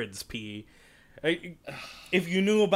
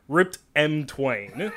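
slow grand reveal; 3 dB louder, slower than usual. Acted. Grand reveal of the pun name.

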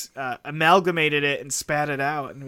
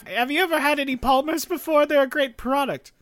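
higher, hammy cartoon spokesman; 9 semitones higher than usual. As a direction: sell it like an old cartoon ad. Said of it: "you've seen that commercial before".

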